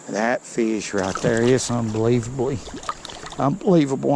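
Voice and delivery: tripping over the words in excitement; stumble, repeating the word; stuttering. Real, not acted. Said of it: "I'm stuttering".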